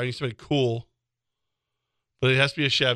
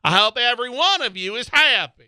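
nasally Larry the Cable Guy; 8 semitones higher, 5 dB louder than usual. Pretend. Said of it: "nasally version of Larry the Cable Guy".

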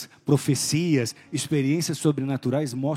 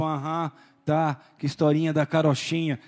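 disdainful. Retold or imitated. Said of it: "me olhava com aquele desdém".

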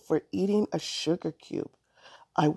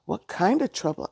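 angrily; 2 semitones higher, 3 dB louder than usual. Acted. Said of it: "Allison said angrily".

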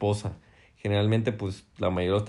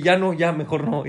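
whiny giving up; 6 semitones higher, 4 dB louder than usual. Retold or imitated. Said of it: "y yo, güey".

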